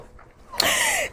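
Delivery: cracking up while saying it; laughing hard. Real, not acted. Telling viewers about the show, laughing hard. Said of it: "I'm really crying".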